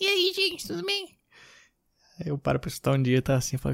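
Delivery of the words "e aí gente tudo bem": very high, thin, squeaky little voice. Joking that the podcast might come out sounding wrong: thin high voice. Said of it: "com a voz fininha".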